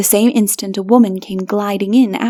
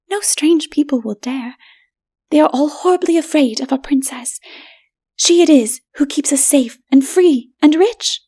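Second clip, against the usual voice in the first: higher, haughty voice; proud city woman; 6 semitones higher than usual. A narrator's reading. Bulika woman explaining to stranger, haughty. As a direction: dismiss the poor lightly.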